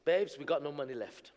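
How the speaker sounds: soft, low, pleading wife. Retold or imitated. Wife begging husband to leave the airport, hushed and low. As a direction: quietly beg him to come home. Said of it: "my wife coming back to me and she says".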